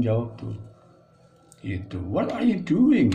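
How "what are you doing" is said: high example phrase. Shown as a demonstration. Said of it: "Itu juga udah agak akrab".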